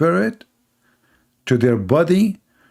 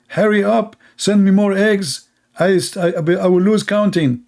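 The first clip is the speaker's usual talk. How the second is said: higher, urgent call for more eggs; wife frantically calling her husband; frantic wife; 5 semitones higher than usual. Retold or imitated. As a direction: panic as the eggs run out.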